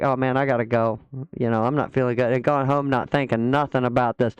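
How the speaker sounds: low, droopy put-on voice; mock sick guest. Imitating a guest who claims he felt unwell, low and droopy. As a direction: groan it like a tired excuse. Mocking what guest would say.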